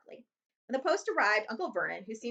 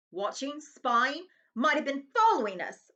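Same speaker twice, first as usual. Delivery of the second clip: wild mutter; 5 semitones higher, 5 dB louder, slower than usual. Acted. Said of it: "muttered Uncle Vernon wildly".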